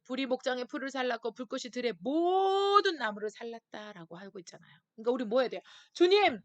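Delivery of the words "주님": crying out to God. Pretend. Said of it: "부르짖는 거예요".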